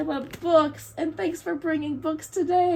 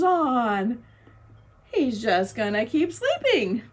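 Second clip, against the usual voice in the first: lively storybook narration with swooping pitch; reading to children; 3 semitones lower than usual. A narrator's reading. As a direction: read it like a picture book to little ones. Reading picture book aloud.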